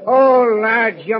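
a sudden loud "Oh," to the crew; loud pleading oh. Acted. Scotty begs the crew to spare the captain, loud cry. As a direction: cry out to stop them.

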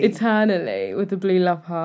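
lightly voiced rapper impression; a hint of smooth rapper; a rapper. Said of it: "my best rapper voice".

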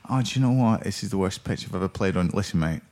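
Phil Foden. Acted. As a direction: moan lightly in put-on Mancunian. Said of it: "the triteness of him going".

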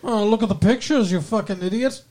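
put-on snooty British accent; condescending British lady accent. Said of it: "she's very British".

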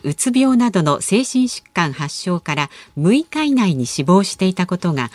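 measured, cleanly phrased news bulletin; news read. Real, not acted. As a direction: read the headlines like a radio announcer. Reads corner intro and news bulletin.

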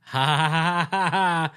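ha ha ha in a mocking voice; mock laugh. Mocking people who laugh at the name.

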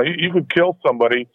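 phone line sound; over the phone. Real, not acted. Thanks for calling in.

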